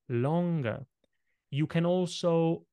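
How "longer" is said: "longer" drawn out long, each sound held; stretched word. Shown as a demonstration. Coach demonstrating to listeners a stretched "longer". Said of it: "Now I'm making the word longer".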